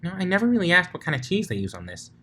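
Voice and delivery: giggly. Acted. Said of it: "she giggled".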